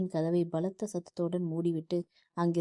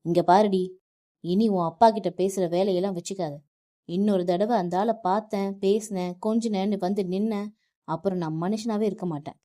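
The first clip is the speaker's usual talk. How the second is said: louder, menacing warning; husband threatening his wife to stop seeing her father; threatening shout; 5 dB louder than usual. Acted. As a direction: bark a final threat at her. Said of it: "Varun நித்யாவை கத்தி கொண்டிருக்க".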